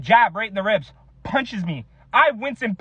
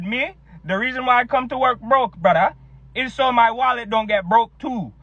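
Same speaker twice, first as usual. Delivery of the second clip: put-on Jamaican accent. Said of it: "what's up with Jamaicans".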